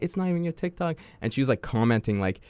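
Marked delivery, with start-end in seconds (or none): 0.0-1.0 high-pitched mock outrage at a friend; mock annoyed. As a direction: imitate the sister's annoyance lightly. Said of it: "And she was just super mad".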